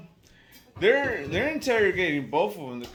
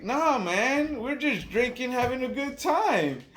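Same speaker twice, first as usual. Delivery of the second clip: higher-pitched, lightly voiced drunk; drunk guy; 6 semitones higher, slower than usual. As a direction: imitate a drunk buddy brushing it off. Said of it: "drunk as shit".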